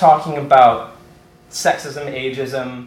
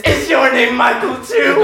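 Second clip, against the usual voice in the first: high, slow shouted question; gleeful scare character; 9 semitones higher than usual. Retold or imitated. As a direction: pounce on a new victim, drawing it out. In character, pouncing on next victim.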